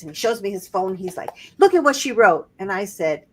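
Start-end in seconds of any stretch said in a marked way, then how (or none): 1.6-2.5 higher, insistent mock fury; pissed husband. Husband shoving the text at his wife, irritated insistence. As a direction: jab at the phone, fed up. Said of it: "he's pissed".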